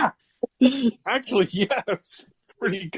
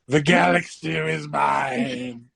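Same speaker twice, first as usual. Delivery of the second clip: slow, lightly voiced evil emperor; a hint of a menacing galactic emperor; Palpatine voice; slower than usual. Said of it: "your impersonation of Palpatine".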